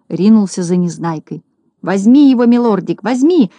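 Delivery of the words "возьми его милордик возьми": high, loud joyful urging; gleeful squeal. A narrator's reading. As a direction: egg the dog on gleefully. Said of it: "радостно визжал Клопс".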